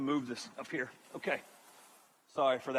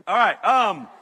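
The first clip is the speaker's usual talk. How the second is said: ordinary talk, nothing marked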